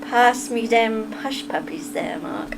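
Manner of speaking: slow, tentative Southern accent, trailing off softly; attempted Southern accent. Shown as a demonstration. Streamer trying a line for Mark, tentative Southern accent. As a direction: feel your way into a Southern drawl. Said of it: "How would you say that?".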